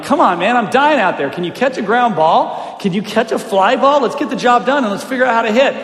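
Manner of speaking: half-yell it like a fed-up teammate; retold angry yelling. Frustrated pitcher to his dropped-ball fielders, retold yelling. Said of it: "I yelled at him".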